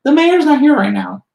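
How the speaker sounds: nervous doorman shooing them away; timid little man. Acted. Tiny thin man at the door telling visitors the mayor is out, squeaky then fading. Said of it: "pokes his head out and says".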